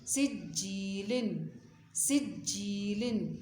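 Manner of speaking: slow, drawn-out letter-by-letter chant; measured tajweed drill with lengthened vowels and nasals; Quran spelling recitation. Shown as a demonstration. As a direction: spell out and join syllables with long held sounds.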